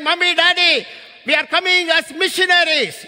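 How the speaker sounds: father voicing his youngest son's decision; imitating the son. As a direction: announce it with bold resolve. Retelling younger son's announcement.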